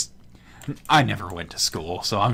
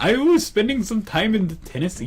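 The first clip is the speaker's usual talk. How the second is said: put-on "Tennessee" said higher in a light Southern accent; Southern accent imitation; 10 semitones higher than usual. Friend mimicking the gamer's Southern accent. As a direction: copy his friend's Southern lilt. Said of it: "you're actually getting it almost spot on".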